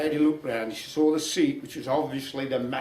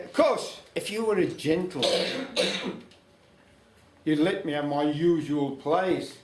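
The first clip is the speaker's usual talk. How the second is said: put-on old lady voice; 4 dB louder than usual. Old lady teasing the devil, in a raised old woman's voice. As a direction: lift the voice up for the cheeky old lady.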